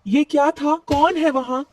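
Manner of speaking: high, startled cries in the dark. Acted. Rano wakes to the axe blow, startled high call. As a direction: jolt awake and call out.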